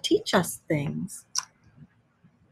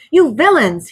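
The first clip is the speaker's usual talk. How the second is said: high, loud storybook outcry; indignant shout; 7 semitones higher, 8 dB louder than usual. A narrator's reading. Rat shaking his fists at the motor car, indignant shout. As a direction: shout it as an outraged accusation. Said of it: "he shouted".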